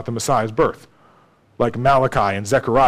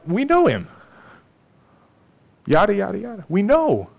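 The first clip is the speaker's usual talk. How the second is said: dismissive mockery; 5 semitones higher than usual. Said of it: "So they cry out".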